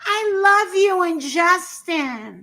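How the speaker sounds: slow, drawn-out adoring fan; gushing fan voice. Retold or imitated. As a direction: stretch it out like a smitten fan. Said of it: "Now they say".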